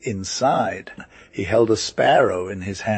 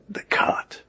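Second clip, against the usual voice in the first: whispering; 4 dB quieter than usual. Acted. Servant whispers answer to master.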